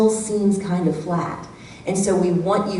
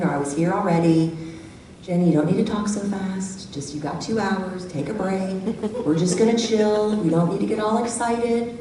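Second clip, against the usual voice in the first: calm tone; 4 dB quieter than usual. Shown as a demonstration. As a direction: talk them down gently. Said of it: "like the calm tone".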